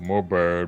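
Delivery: voice dropped as low and deep as possible. Playing a character apologizing after missing a cue: lowest voice. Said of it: "in my lowest voice".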